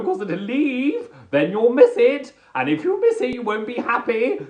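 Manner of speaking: high, loud, over-cheerful platform announcement; comic railway announcer, pitched high; cheery railway announcer. Acted. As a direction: sing out the train call to cheer everybody up. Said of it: "I really should be a railway announcer".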